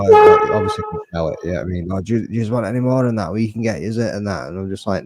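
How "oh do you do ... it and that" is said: pushy smackhead. Retold or imitated. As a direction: mimic a pushy street dealer, rattling it off fast. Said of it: "these smackheads come up going".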